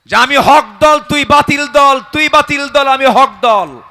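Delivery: hammed-up boast; mock boastful rival. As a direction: parody the arrogant claim. Mocking a boastful group.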